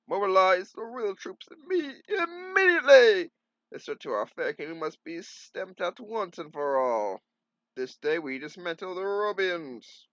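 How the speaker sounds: king ordering the troops against the Robians in fury; raging king. Acted. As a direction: bellow the orders in a rage. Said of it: "his rage fueled".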